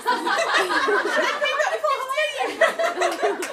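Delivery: slow, high, laughing punchline. Real, not acted. Speaker to parents about holidays, laughing. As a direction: deliver it through laughter. Marbella story joke.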